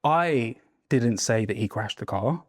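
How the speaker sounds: I stretched and lifted, slow delivery; stress on I. Shown as a demonstration. Coach demonstrates stressing I for the class. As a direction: hit the word I, slowly. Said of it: "If you emphasize different words".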